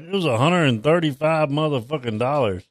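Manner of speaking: slightly hushed retelling of a price; retold mouthing. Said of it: "mouthed the price".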